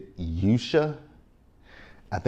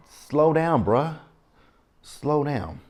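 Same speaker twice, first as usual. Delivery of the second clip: high-pitched retold plea to ease up; mock pleading admonishment; 7 semitones higher, much slower than usual. Vlogger retelling a warning to overworked Quick, high and admonishing. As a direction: imitate someone urging a friend, pitched up.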